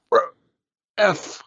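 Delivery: dazed reaction. Retold or imitated. Malkovich's reaction, quoted.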